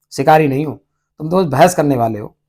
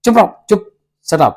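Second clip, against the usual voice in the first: a sharp, raised hush, a little higher; angry shut up; 3 semitones higher than usual. Retold or imitated. Chubukov angrily silencing Lomov, raised voice. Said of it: "गुस्से में आकर".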